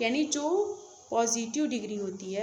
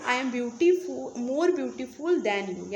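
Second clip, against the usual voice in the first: slow example sentence; much slower than usual. Shown as a demonstration. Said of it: "यानी मैं तुम्हारी अपेक्षा अधिक सुंदर हूँ".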